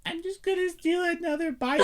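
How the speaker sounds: high, sly mock voice; mocking Kate. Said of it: "Kate sits there and goes".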